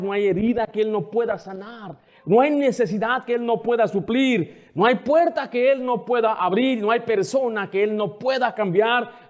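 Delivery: rising, insistent preaching refrain; fervent repeated preaching, climbing in pitch; preaching build-up. Acted. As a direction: build each No hay line toward the peak. Preaching crescendo of No hay lines.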